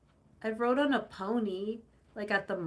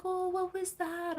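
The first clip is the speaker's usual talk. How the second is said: high cooing voice for a cat; high baby talk to a kitten; pet talk; 9 semitones higher than usual. Retold or imitated. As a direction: coo at the tiny meow. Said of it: "I was like".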